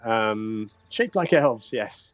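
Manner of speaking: lightly voiced jovial adviser; Sir Talavar. Fairy dragon judges the cookies safe, lightly jovial. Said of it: "So Talavar says".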